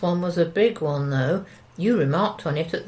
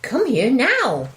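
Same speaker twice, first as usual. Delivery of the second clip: loud, slow, insistent command; insistent call; 6 semitones higher, 5 dB louder than usual. Acted. Wife ordering husband to the window, loud insistence. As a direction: demand he come right now.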